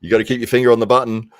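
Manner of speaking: loud fast exasperated yell; hammed-up fury at the producer; mock angry yell. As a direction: bellow like a fed-up voice actor. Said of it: "And he's like".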